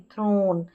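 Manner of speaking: थ्रोन said with a long closed o; teacher gives the right थ्रोन with a long o; correct long o. Shown as a demonstration. Teacher corrects students, long o. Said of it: "इसको भी थ्रन नहीं".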